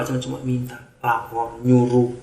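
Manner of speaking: normal talking voice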